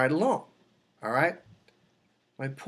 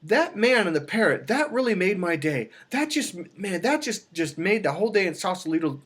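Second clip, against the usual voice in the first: lightly imitated niece, higher; a hint of the niece gushing, pitched up; retelling the niece's delight in a higher voice; 4 semitones higher than usual. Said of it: "she said".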